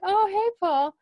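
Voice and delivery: high, loud, chirpy mock greeting; hammed-up excitable hey; imitating Daryl. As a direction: mimic an over-friendly hello. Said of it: "you know how Daryl is".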